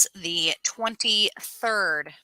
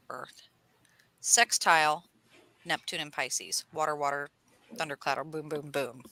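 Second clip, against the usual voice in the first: playful rundown; 4 semitones lower than usual. Acted. Astrology rundown, dropping to soft asides.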